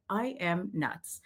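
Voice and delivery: slow, soft, half-whispered self-talk; hushed retold inner voice; self-doubting aside. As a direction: whisper it to yourself in disbelief. Muttering to self walking in.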